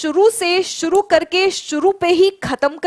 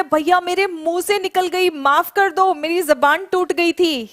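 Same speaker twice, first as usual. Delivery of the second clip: meme quote; 3 semitones higher, slower than usual. Retold or imitated. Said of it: "ये meme किसी को याद है".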